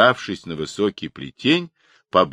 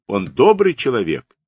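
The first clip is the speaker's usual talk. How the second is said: higher, moderately raised protest; women shouting afar; 6 semitones higher, 4 dB louder than usual. A narrator's reading. Village women vouching for him, mild shout from afar. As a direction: call out in his defence. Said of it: "закричали бабы издали".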